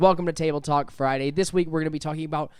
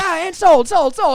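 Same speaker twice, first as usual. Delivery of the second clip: very high, very loud cartoon cry; 14 semitones higher, 11 dB louder than usual. Recalling a cartoon scene of someone pointing all over: Mister Poopy Butthole voice. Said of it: "scene from Rick and Morty with Mister Poopy Butthole when he's like".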